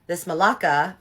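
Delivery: mock outraged swearing, punched up; cursing. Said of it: "she starts cursing in Greek".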